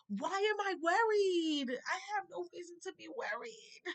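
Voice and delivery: high, slow, tearful voice; crying. Real, not acted. Telling viewers she has no reason to worry, crying. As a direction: let the tears break through the words. Quoting her own faith, voice cracking.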